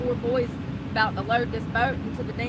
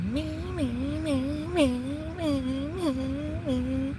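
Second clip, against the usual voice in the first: engine idling sound; 5 semitones higher, slower than usual. Retold or imitated. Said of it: "That's what I think it sounds like".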